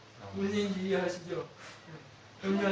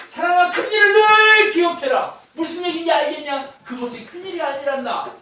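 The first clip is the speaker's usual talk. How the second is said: God speaking; 12 semitones higher, 12 dB louder than usual. Acted. Preacher voicing God calling his beloved, high and loud. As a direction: call out like a father from on high.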